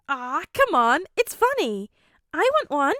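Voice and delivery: put-on high, excited girl voice; eager and bubbly; bright eager girl voice. Hando eager.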